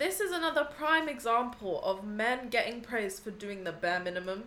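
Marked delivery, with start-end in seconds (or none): 3.6-4.4 stuffy-nosed voice; blocked nose. Real, not acted. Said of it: "try and say minimum again".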